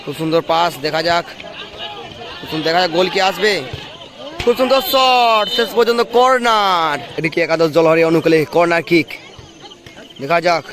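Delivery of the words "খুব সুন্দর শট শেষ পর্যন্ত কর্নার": excited. Real, not acted. Near-miss shot ends in corner.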